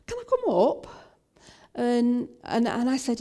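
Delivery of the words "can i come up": high, raised call with a swooping question. Retold or imitated. Young lad asking to join them, calling up. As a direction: call up from the bottom, high and louder.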